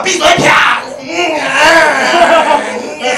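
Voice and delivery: high, loud command and grunts; hammed-up wild girl shutting him up; mock bossy shout. Beijing girl dominating him in bed. (夸张的高声喝令和呻吟)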